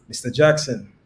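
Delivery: MISTER JACKSON with the tune dropping at the end, like a teacher calling out a culprit; downward inflection. Shown as a demonstration. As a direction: say Mister Jackson with a falling, you're-in-trouble tune. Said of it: "That's a downward inflection".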